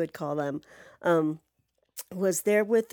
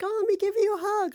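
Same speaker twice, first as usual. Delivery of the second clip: mock sweet girl voice; 12 semitones higher, faster than usual. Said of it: "she was like".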